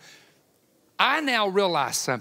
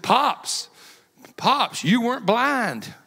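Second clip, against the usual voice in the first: slow, higher, drawn-out teasing amazement; imitated amazed admiration; 4 semitones higher, 3 dB louder, much slower than usual. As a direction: play the impressed youngsters, stretching the words. Staff's admiring reaction, acted out.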